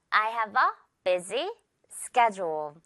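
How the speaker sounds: "schedule" said SKED-jool, with a j sound. Shown as a demonstration. Teacher modelling "schedule" for learners, careful j sound. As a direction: say "schedule" with the d softened to j, slowly. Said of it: "지읒 발음으로 schedule".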